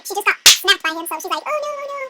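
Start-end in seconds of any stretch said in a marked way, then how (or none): 1.4-2.0 high, soft mock whimper; small, pitiful princess voice. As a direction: whimper faintly after a slap.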